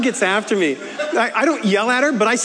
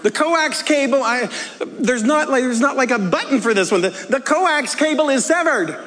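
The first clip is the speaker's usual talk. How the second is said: loud, frustrated; 5 semitones higher than usual. Retold or imitated. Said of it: "And I loudly say".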